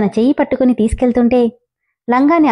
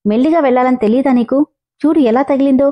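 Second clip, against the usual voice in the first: scolding; 2 semitones higher than usual. Acted. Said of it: "చివాట్లు వేస్తున్నాడు".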